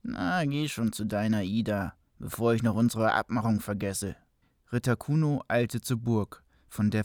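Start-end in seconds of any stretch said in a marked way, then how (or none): 0.0-4.1 devil voice. Acted. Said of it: "sagte der Teufel".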